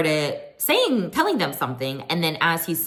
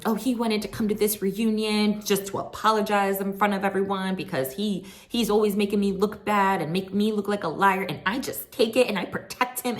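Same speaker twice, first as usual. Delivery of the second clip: higher mock Mia voice; lightly voiced whiny wife; a hint of a self-pitying wife; quoting Mia; 5 semitones higher than usual. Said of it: "So she said".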